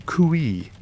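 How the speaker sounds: a high, carrying bush call. A narrator's reading. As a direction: call it out to someone far off. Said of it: "was heard to cry".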